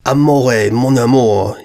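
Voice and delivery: a hammed-up posh French accent, lightly done; mock French accent. A narrator's reading. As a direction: woo her in a silly upper-class French accent. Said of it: "preposterous attempt at an upper-class French accent".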